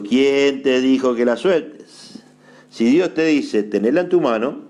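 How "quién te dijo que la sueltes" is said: slow, drawn-out "quién te dijo que la sueltes"; emphatic repeat. Shown as a demonstration. Preacher repeating the question to the congregation, slow and emphatic. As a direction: stretch "quién" and "sueltes" slowly to drive it home.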